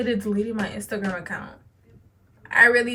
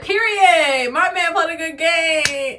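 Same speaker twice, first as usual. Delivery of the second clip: put-on proud girlfriend; 6 semitones higher, 5 dB louder, slower than usual.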